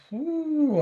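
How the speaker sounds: high, drawn-out "oooh"; overwhelmed "ooh". Acted. Speaker voices a body's warning against heavy talk, overwhelmed "ooh". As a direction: let out a long, high wary "ooh". Acts out body saying not ready.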